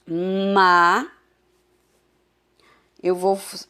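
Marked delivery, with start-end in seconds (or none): 0.1-1.1 "Ma" drawn out slowly as a model syllable; syllable demo. Shown as a demonstration. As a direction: say "Ma" clearly for the class to copy. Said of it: "a primeira sílaba a gente tem ma". (sílaba "Ma" bem pronunciada)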